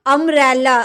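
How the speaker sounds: अम्ब्रेला said loud, opening vowel clearly sounded; teacher sounding out अम्ब्रेला, vowel first; vowel sound demo. Shown as a demonstration. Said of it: "ओ sound आ रहा है".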